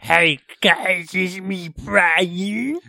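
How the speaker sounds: high, put-on voice rising at the end; Brian impression. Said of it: "do your best Brian impression".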